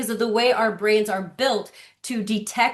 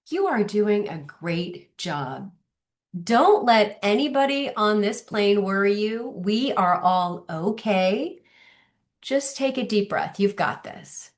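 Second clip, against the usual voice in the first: reassuring; 2 semitones lower than usual. Retold or imitated. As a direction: settle a stranger's nerves gently. Calming a nervous mom on plane.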